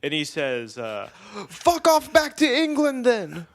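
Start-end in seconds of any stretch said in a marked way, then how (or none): 1.5-3.5 high, loud dismissive yell; imitated screaming. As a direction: imitate a furious man sending someone packing. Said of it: "The guy screamed".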